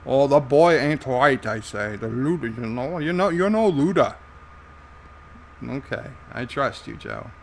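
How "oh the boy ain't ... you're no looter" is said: put-on Irish character voice; Joe. Irish sidekick answering the host's question, in character voice. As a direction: explain it as a colourful Irishman. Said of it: "Joe, what's a looter?".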